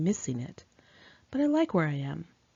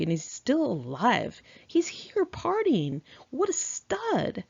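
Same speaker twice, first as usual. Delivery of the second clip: put-on snobby Valley Girl; 2 semitones higher than usual. Michael telling Raz about the soldier in a snobby nasal Valley Girl voice. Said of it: "he said in his snobby, nasal Valley Girl voice".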